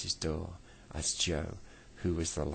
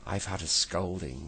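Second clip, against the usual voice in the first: weeping; 4 dB louder than usual. Acted. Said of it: "wept Moonface".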